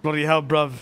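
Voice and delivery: hammed-up British street accent; mock British accent. Mimicking the British lawyer, mock British accent. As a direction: tease with a bad British accent. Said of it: "you're sounding like I'm like".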